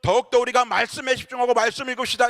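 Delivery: acted preaching appeal on a high pitch; imitated pastor's exhortation. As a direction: call out to the flock like a pastor. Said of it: "이렇게 외쳤어요".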